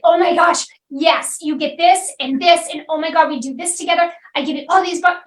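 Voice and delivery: rushed, eager overselling pitch; gushing fast. Retold or imitated. Business owner gushing about their program, excited and rushed. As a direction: pile it all on, breathless and eager. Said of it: "you start going really fast".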